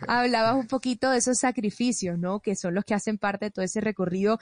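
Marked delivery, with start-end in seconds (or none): 0.1-2.2 laughing. Real, not acted. Laughs while resuming question.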